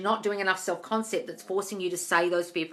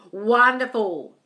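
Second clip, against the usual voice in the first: drawn-out delight; 4 semitones higher, 8 dB louder, much slower than usual. Real, not acted. Delighted reaction to comment.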